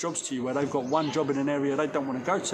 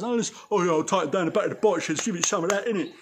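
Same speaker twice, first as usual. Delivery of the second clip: mock hard-man talk; 2 semitones higher, 4 dB louder, faster than usual. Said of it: "The people who talk like that".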